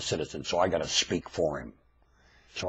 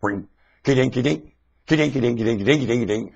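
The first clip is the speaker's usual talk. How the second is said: mocking singsong; 3 semitones higher, 6 dB louder than usual. Mocking the classroom teacher.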